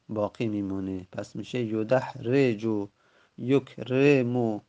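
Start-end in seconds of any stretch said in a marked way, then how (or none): 3.4-4.6 slow model word. Shown as a demonstration. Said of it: "teacher modelling verb forms".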